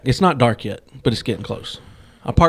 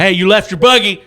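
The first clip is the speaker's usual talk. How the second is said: higher-pitched calling out; retold yell; 6 semitones higher, 3 dB louder than usual. Shopper to driver who left the cart, raised retold yell. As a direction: call after a stranger, retold at half force. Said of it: "yelling at people".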